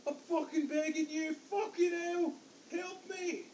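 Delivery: high frantic screams for help; begging, voice cracking high in terror; desperate screaming. Acted. Abandoned captive screaming.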